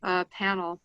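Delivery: muffled speech behind a mask; through a face mask. Real, not acted. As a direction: talk through a cloth mask. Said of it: "hopefully you can hear me through my mask".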